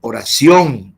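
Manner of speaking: oración with the stress on the last syllable, ción; Spanish stress on the ción. Shown as a demonstration. Teacher showing Spanish word stress, oración stressed on ción. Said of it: "in Spanish, oración".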